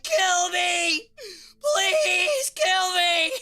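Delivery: high, loud mock wail to be killed; pleading sphinx. Voicing the sad sphinx to chat, mock wail. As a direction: beg like a cursed statue. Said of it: "The Sphinx is like".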